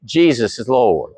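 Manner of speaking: drawn out, said together with the congregation; slow unison declaration. Shown as a demonstration. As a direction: lead the room in a slow creed. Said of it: "Say that with me".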